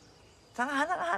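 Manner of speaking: high, slowed mock ordering; mock demanding fuss. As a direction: imitate someone fussily demanding food. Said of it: "แล้วก็โวยวายใหญ่". (ล้อเลียนเสียงโวยวายสั่งอาหาร เสียงสูงและช้า)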